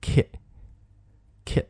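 kit as the K of work joined to it; short, soft kit syllable, spaced out; linked pronunciation. Shown as a demonstration. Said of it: "这个K和后面的it的I连". (kit：K 和 I 连读成一个音节)

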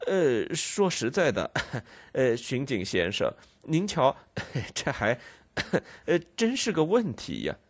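hesitant, chuckling musing; thoughtful Snagsby. Acted. Snagsby musing to the constable, hesitant and chuckling. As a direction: hem and haw with little nervous laughs. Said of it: "斯纳斯比先生若有所思地说".

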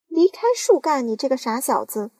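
put-on loud, high yell at the boy; aunt yelling at James; howling. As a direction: bark it at the boy. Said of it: "嚎叫着".

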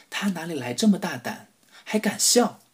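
high, startled disbelief; surprised. Acted. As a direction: raise the pitch in shock. Ministers think in surprise.

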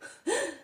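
a quick amused chuckle; short laugh. Acted. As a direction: laugh it off lightly. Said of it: "王朝笑道". (轻轻一笑)

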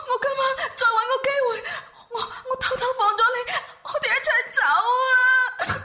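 fast tearful whisper-plan; crying urgently. Acted. Girlfriend plans escape with Ah Ho, crying fast. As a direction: rush the plan through tears.

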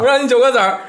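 cocky nephew. Retold or imitated. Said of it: "这么狂呢".

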